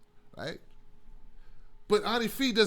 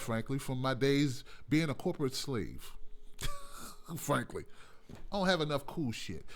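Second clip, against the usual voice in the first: ordinary delivery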